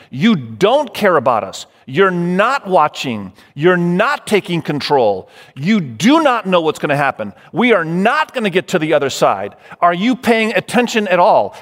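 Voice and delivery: emphatic acted accusations, hammered one after another; mock-indignant disciples confronting their teacher; accusing. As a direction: accuse him point by point, stressing each charge. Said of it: "The disciples are accusing him".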